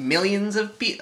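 lightly voiced slow satirical drawl; a hint of a deadpan punk ranter. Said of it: "he was being very satirical".

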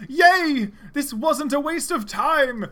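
cheer, then savour the relief; joyful cry. Acted. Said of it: "cried Cheese".

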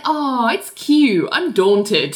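slow, unbothered drawl of fake fear; unimpressed. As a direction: say it slowly, clearly not scared. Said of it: "sounding not at all daunted".

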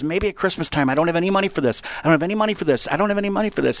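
lightly voiced harried mother; frazzled mom. Mom turning down her begging kids, mock frazzled. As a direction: repeat the refusal, mildly beside yourself.

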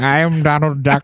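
badly faked cartoon duck voice; Donald Duck. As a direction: feeble attempt at a duck character. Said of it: "Worst Donald Duck impression ever".

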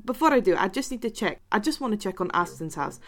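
preoccupied Scottish villager; Scottish accent. Acted. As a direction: excuse yourself in a Scottish accent. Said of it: "when I start doing a Scottish accent".

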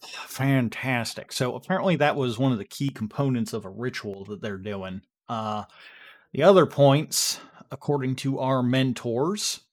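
folksy Texan, lightly put on; casual Texas twang, halting with uh's; Dan, Texas accent. Dan gives the group the lowdown, light Texas accent. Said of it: "I'm doing my best yeehaw here".

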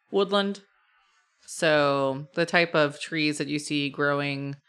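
measured narration, pausing between details; game master scene setting. A narrator's reading. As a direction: set the scene for the players, unhurried.

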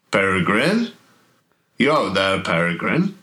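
a hint of a mysterious caller; deep calling voice. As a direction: voice from the maze, questioning lilt. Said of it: "a sort of a very deep voice coming from over".

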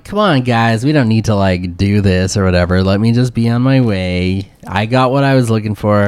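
lightly whiny villain, pitched a bit low; mildly whiny plea to be left alone; a hint of a whiny character voice. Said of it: "What a whiny voice".

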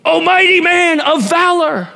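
high, sarcastic mock praise; lightly mocking heavenly herald; mock grand proclamation. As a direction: ham up the angel's grand title. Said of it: "I mean, this is crazy".

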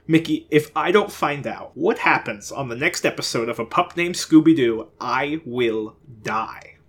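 pleading. Acted. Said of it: "he pleaded".

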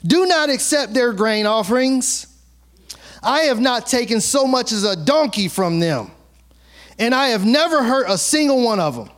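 angry Moses. Acted. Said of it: "Moses became very angry".

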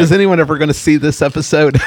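half laughing, half horrified; laughing disbelief. Real, not acted. Cohost incredulous at the joke.

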